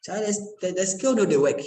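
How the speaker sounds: casual Nigerian Pidgin delivery; in Nigerian Pidgin, lightly voiced; Pidgin English. Shown as a demonstration. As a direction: switch into Nigerian Pidgin, chatty. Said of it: "I can speak Pidgin".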